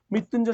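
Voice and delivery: মৃত্যুঞ্জয় sounded out in separate parts; teacher modelling মৃত্যুঞ্জয়; pronunciation demo. Shown as a demonstration. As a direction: say মৃত্যুঞ্জয় carefully, part by part. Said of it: "উচ্চারণ কি হবে".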